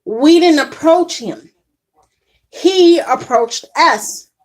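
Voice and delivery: slow, measured correction; calm tone. Retold or imitated. Parents answering the yelling bus driver, calm and deliberate. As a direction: state it evenly, taking your time. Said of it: "with the calm tone".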